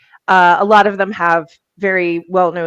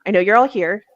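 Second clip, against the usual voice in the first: real chill. Retold or imitated. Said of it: "if you go in real chill".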